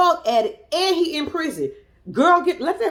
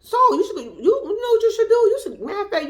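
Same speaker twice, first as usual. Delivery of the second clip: imitating Louis; 9 semitones higher, 4 dB louder than usual. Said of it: "so he was like".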